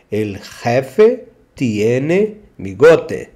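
slow, clear demo of the sentence; teacher modelling slowly; slow model sentence. Shown as a demonstration. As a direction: say it slowly for learners to repeat. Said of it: "slow model sentence".

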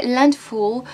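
Landfall said with a clumsy English accent by a French speaker; bad English accent. Real, not acted. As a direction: attempt Landfall in English and miss. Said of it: "avec mon super accent bien pourri".

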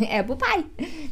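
"pie" said like Portuguese "pai"; teacher laughing at "pie" turned into "pai"; mock pai pronunciation. Shown as a demonstration. Teacher joking to students about saying pai. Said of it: "Até parece que eu falo, né, é pro pai".

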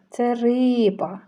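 «риба» spoken slowly and clearly, leaning on the «и»; slow sounding out. Shown as a demonstration. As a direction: stretch «риба» out for small children. Teacher sounding out picture names. (повільно і чітко вимовляє «риба»)

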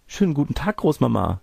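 put-on high girlish greeting, falling at the end; Rotkäppchen's greeting. Girl greets grandmother on entering, high little-girl voice.

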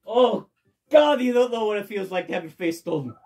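voicing Luigi.

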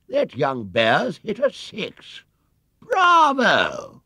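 high, slow delighted shout rising to a long bravo; excited cheer. A narrator's reading. Spectator cheers the bear's six, delighted shout. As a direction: cheer the bear on.

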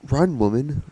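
loud urgent yell; shouting. Real, not acted. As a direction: yell at her to run. Urging game character to flee.

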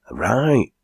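crying out. Acted. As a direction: sing out the tooraloo. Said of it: "cried Rip".

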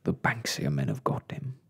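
low, woeful groan; despairing low lizard voice. A narrator's reading. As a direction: groan out the bad news low. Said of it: "groaned Mister Lizard".

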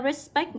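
"respect" stressed on -SPECT; nhấn âm hai. Shown as a demonstration. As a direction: punch the second syllable of "respect". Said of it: "cũng nhấn vào âm số hai". (đọc "respect" nhấn vào "spect")

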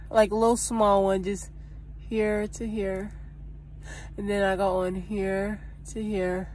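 talking around a stick; stick in mouth. Real, not acted. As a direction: lips parted around stick. Seen 2: White stick held between lips, pointing at braces while she speaks.

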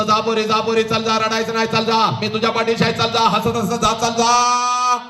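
high, insistent send-off, last word stretched; urging send-off. Acted. Father sends bride off, high acted urging. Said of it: "हसत हसत तुला म्हणतो".

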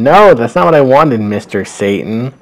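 Mauser's hammed-up screaming protest; mock scream. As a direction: act out a horrified no. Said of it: "so he starts screaming".

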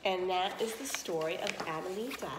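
lively read-aloud to children, voicing each character; expressive story narration for young listeners; storybook reading. A narrator's reading. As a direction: tell it like a bedtime tale for the class. Teacher reads a story aloud.

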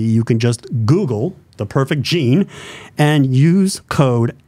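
slow, upbeat radio ad read. Shown as a demonstration. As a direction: draw out the promo code like a radio host. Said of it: "I do my radio voice".

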